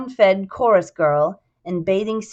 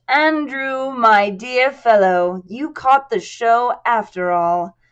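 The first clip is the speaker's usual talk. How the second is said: louder, slow, gushing welcome; beaming theatrical greeting; 4 semitones higher, 4 dB louder, slower than usual. Acted. Cohen greeting Ryan, lightly voiced and gushing. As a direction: gush over an old friend. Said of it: "beaming, one eyebrow arched".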